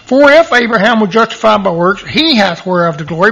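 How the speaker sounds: "he" lifted out of the verse; stress on he. Shown as a demonstration. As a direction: read the verse leaning on "he". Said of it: "make a big deal about that word".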